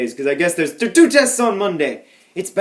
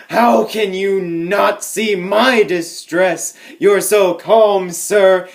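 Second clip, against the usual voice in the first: mock distress; 2 semitones higher, much slower than usual. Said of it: "And I was like".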